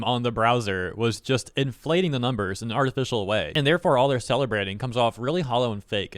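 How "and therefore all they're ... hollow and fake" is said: talking through a bagel; words round a bite of food; mouth full. Real, not acted. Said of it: "I got, like, a bagel in my mouth".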